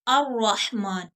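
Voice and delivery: अर्रहमान with doubled r, no l; lam hidden. Shown as a demonstration. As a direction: say अर्रहमान as ar-rahman. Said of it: "मसलन". (अर्रहमान, लाम छुपाकर)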